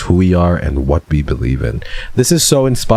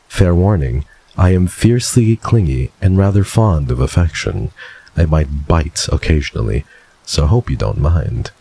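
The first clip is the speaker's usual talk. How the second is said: lower, smooth flirty villain voice; lightly voiced suave rogue; Silas voice; 3 semitones lower than usual. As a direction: purr it like a smug charmer. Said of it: "you're voice acting this shit right now".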